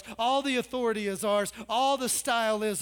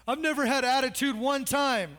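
put-on whiny kid; 2 semitones higher, 3 dB louder than usual. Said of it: "Have your kids ever done that?".

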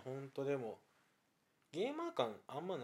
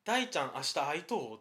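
Hyogo dialect; 5 dB louder than usual. Retold or imitated. Imitating a Hyogo person asking a friend about meeting, in Hyogo accent. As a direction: ask it like a Hyogo local, in Hyogo dialect. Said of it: "兵庫の人は何々しとうって言うやん".

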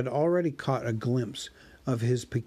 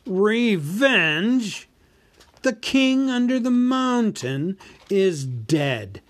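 slow, loud, booming boast, much higher; gloating dragon; 3 semitones higher, 4 dB louder, slower than usual. Acted. Dragon gloats over his might to the hobbit. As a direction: savour every boast like a vast old dragon. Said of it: "he gloated".

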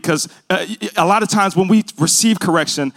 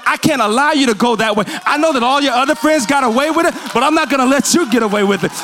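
fervent voice of God; 6 semitones higher than usual. Acted. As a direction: preach God's love as if God himself speaks. Pastor voices God's words to congregation.

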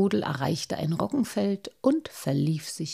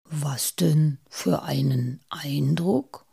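slow, lower, wondering whisper; puzzled whisper; 4 semitones lower, slower than usual. Acted. Mosbart asks his friend, puzzled and whispering. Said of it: "fragte Mosbart verwundert".

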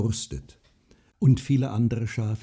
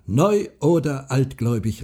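louder, raised, heated retort; eager call; 5 semitones higher, 6 dB louder than usual. A narrator's reading. Farmer retorts to the widow, eagerly calling. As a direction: call it out with growing zeal. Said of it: "rief er".

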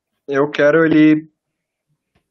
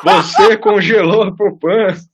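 ghost voice; 5 semitones higher, slower than usual. Pretend. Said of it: "Eu sou o fantasma da culpa".

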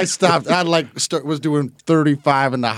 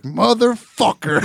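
mock dismay; 9 semitones higher, 3 dB louder than usual. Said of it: "He's like".

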